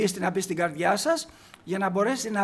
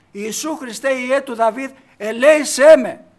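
much louder, slow retold shout building to the end; loud desperate cry; 3 semitones higher, 13 dB louder than usual. Blind man's last loud cry as Jesus passes, building shout. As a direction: throw the plea out with everything he has. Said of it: "γι' αυτό φωνάζει πιο δυνατά".

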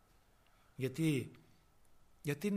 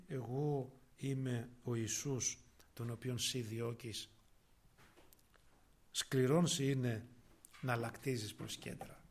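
solemn voice of Jesus; 5 semitones lower, 4 dB quieter, slower than usual. Acted. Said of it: "ο οποίος, λέει, ρωτάει".

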